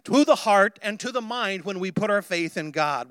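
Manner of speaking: impassioned pulpit build; emphatic sermon delivery; fervent preaching. Real, not acted. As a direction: preach it with urgent conviction.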